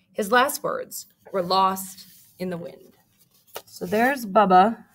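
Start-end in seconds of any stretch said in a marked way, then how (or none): 0.1-3.0 lively read-aloud storytelling; story narration. A narrator's reading. Teacher reading a picture book to her class, lively.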